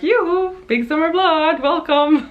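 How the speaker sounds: high, bright shop greeting; sing-song welcome to a customer; cheery high-pitched retail hello; customer service chirp. Retold or imitated. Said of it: "I'm in my normal customer service self".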